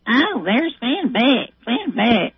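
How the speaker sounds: slow mock Barbara Walters voice; drawn-out hint of Barbara's voice; lightly voiced Barbara greeting; imitating Barbara Walters. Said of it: "imitating Barbara".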